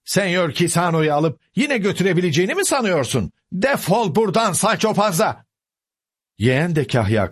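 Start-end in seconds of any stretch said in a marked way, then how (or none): 0.1-5.4 high, indignant scolding; angry cry. A narrator's reading. Housekeeper sending Sancho away from the door, angry cry. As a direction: scold him in a raised pitch. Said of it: "diye bağırdı kahya kadın".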